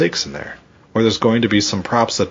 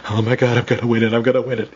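imitated excitement; 3 semitones higher, faster than usual. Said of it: "You want her to be fucking excited".

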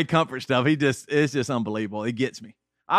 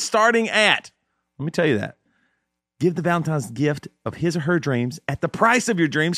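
infomercial. Acted. Hyped sponsor pitch with code.

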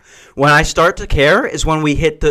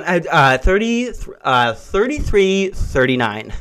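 flustered stammer. Retold or imitated. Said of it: "she's going".

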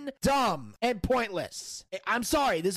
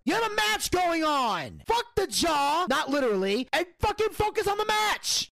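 angry rant; 5 semitones higher than usual. Real, not acted. Ranting about referee focus.

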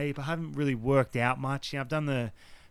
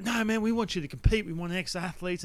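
lightly imitated eager producer, higher pitch; high-energy producer; 5 semitones higher than usual. Producer urging him to compete, lightly mimicked high energy. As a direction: push the pitch up like a keen recruiter. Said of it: "energy's through the roof".

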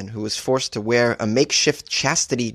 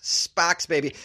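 Boston sparks; 2 semitones higher, 4 dB quieter, slower than usual. Shown as a demonstration. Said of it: "a great word for a Boston accent".

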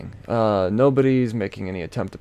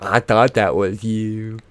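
mock cashier; slower than usual. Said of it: "she's like".

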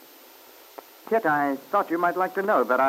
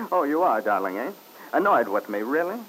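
mocking. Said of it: "that's my cue to go off in a corner and suffer".

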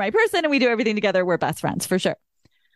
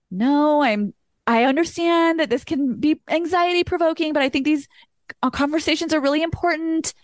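careful and gentle; 6 semitones higher than usual. Retold or imitated. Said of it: "very carefully tiptoed around that".

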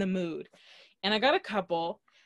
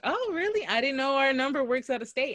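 higher-pitched imitation of a surprised cashier; retold surprise; 6 semitones higher, 3 dB louder than usual. Cashier hears number works out of state, mock surprise. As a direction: jump high on "really", lightly mimicking disbelief. Cashier reacts to her lie.

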